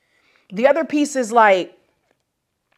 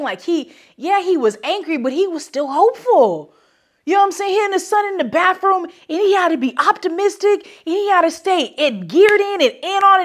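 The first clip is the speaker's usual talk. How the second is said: getting emotional; 7 semitones higher than usual. Real, not acted. Talking about Will Smith and his son, getting emotionally worked up. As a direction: voice climbing higher with real feeling. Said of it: "I'm getting emotional".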